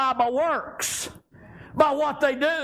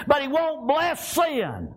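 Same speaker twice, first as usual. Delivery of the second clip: slow, emphatic shout with every word hit; slow preaching shout; slower than usual. Real, not acted. Preacher shouting to the church that He won't bless sin. Preacher hammering his point home.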